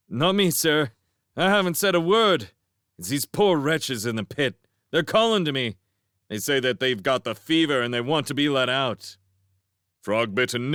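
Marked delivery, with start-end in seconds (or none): 0.1-9.2 protesting innocence up to the guard; a lightly voiced otter pleading; innocent otter. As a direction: play the helpful innocent, a little higher.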